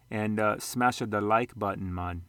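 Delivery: put-on a light, slow Jamaican accent; a quick half-hearted Jamaican accent for a laugh. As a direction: slip into a joking Jamaican lilt. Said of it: "I just talked Jamaican".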